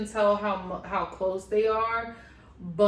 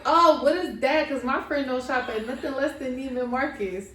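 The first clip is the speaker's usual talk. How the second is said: mock snooty friend; 3 semitones higher than usual. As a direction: imitate a judgy friend sneering at the gift. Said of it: "her friend was like".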